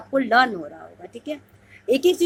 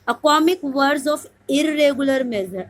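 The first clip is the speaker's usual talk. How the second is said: slow dictation reading; 3 semitones higher, 4 dB louder, much slower than usual. Shown as a demonstration. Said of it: "teacher reads out exam question".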